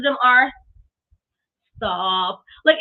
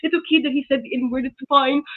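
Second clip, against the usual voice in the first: lightly voiced naive defender of Hogan; mock Hogan fan; 2 semitones higher than usual. Mocking Hogan's loyal fans, a lightly put-on naive voice. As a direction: play a clueless fan, a bit mocking. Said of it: "who still be like".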